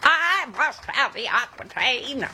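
slow, lightly voiced Hepburn line; drawn-out old Hollywood delivery; Katharine Hepburn impression. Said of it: "my Katharine Hepburn impression".

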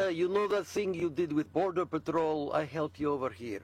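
put-on clumsy Israeli accent that drifts Russian; bad Israeli accent. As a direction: fake Israeli accent, close to Putin. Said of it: "That's a bad Israeli accent".

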